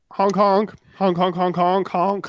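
goofy trucker horn honks; silly clown. Pretend. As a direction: honk like a truck horn, playful. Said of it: "That's my impression of the truckers".

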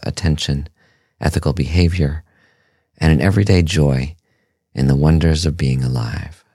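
calm, measured meditation voice with long pauses; guided meditation. Acted. Host leading listeners through a meditation on pleasure and breath, calm guided-meditation delivery. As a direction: guide listeners gently, leaving space between phrases.

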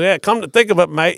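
high, loud nose-held Aussie voice; a rock singer. Acted. Singer confiding in a fan, nose-held mock Australian. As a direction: imitate a rock singer with a pinched nose. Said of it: "he's holding his nose".

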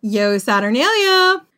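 loud, high, drawn-out cheer; festive shout. Acted. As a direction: shout the greeting back with glee. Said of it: "People would shout to each other".

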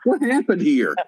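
high-pitched, worked-up demand for answers; mock outrage. Roommates all worked up over Jeff leaving, mock outrage. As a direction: play a roused group hunting for the culprit.

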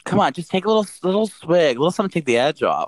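tipsy coaxing; wine-loosened teasing. Real, not acted. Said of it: "I'm drunk".

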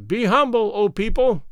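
high, thin herald's cry; thin piping voice. Acted. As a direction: pipe it out thinly. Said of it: "piped out a thin voice".

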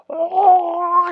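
a high, strained "oh" while gagging; imitating the friend's retching moan; mock retching moan. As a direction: act out the retch with fingers in his mouth. Fingers in friend's mouth, gagging.

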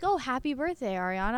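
lightly put-on excited greeting; imitated cheery fans. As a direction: gush a birthday greeting as a fan. Imitates fans wishing happy birthday.

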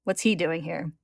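measured read-aloud with lightly voiced dialogue; story narration. A narrator's reading. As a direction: read the tale clearly, lifting the quoted lines.

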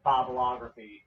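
"Bibleography" said with Bible at the front; mispronounced bibliography. Retold or imitated. Recalling a misreading in advanced class, mispronounced "Bibleography". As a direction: say "Bibleography" as if it began with the word Bible. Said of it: "I pronounced it Bibleography".

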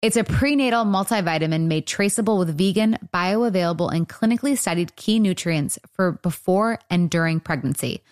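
upbeat sponsor read. Acted. Podcast host reading a store sponsor spot, upbeat ad read. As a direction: sell it like a friendly host ad.

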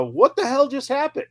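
high, stunned disbelief; Taz's shocked quote. Retold or imitated. Commentator reacting to a shocking match finish, high and stunned. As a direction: ask it like you can't believe your eyes. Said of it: "Taz summed it up".

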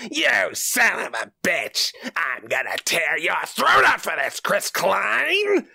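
high mock rage, drawn out; angry Willem Dafoe. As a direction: snarl the threat with a slow, high fury. Dafoe yelling at Chris Klein.

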